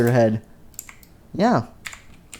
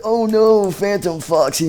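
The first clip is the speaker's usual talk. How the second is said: alarmed cry; 8 semitones higher than usual. Acted. Character alarmed by attack.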